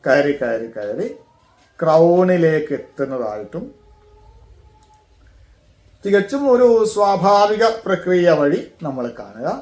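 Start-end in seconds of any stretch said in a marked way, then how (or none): 0.0-3.6 slow, measured, long-held vowels; guided meditation. Shown as a demonstration. Teacher guiding breath up through every chakra, guided meditation. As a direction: stretch each phrase as the breath climbs.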